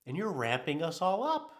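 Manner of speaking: a body part pleading with its owner; nervous system scolding. Retold or imitated. His nervous system scolds him for the caffeine, mock-exasperated. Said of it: "my central nervous system is like".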